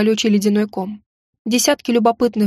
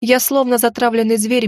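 plain reading voice

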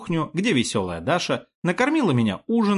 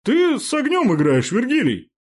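mock hiss; 11 semitones higher, 4 dB louder than usual. A narrator's reading. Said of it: "прошипел он".

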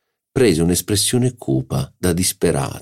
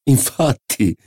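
high, quick swaggering agreement; bold agreement; 9 semitones higher, slower than usual. A narrator's reading. Marquis agrees with the doctor, high and swaggering. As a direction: toss it off boldly. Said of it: "ridendo spavaldamente".

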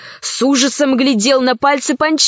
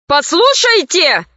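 high voice; 5 semitones higher than usual. Acted. Vaga Bull's Tail confronts the pirates in a high voice. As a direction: pitch it up to stop them. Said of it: "высоким голосом произнёс Вага Бычий Хвост".

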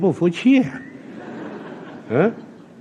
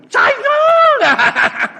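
gleeful triumph; 5 dB louder, much slower than usual. Acted. Sun triumphantly tells emperor he won.

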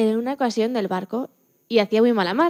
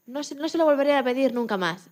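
pleading; 3 semitones higher than usual. Retold or imitated. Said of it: "le rogué".

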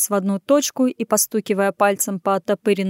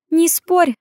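high, airy little command; purred order; 9 semitones higher, 4 dB louder than usual. A narrator's reading. Woman brushing past a big man, purred order. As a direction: hush him playfully but firmly. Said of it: "мыркнула она".

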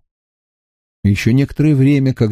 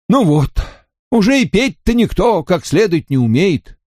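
put-on old villager's grumble, higher; cross, complaining tone; grumbling angrily; 6 semitones higher than usual. A narrator's reading. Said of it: "сердито сказал он".

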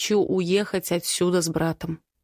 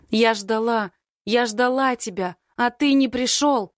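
wailing; 4 semitones higher than usual. Acted. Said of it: "а я продолжаю голосить".

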